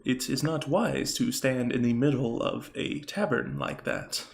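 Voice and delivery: lightly voiced Warforged warning; a hint of a solemn construct; Warforged figure. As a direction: advise as a tall robot warrior, understated. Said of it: "and he's saying".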